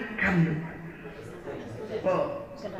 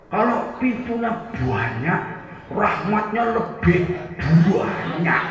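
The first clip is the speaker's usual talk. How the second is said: Javanese accent; slower than usual. Shown as a demonstration. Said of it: "Orang Jawa kalau bilang banyak ditambah u".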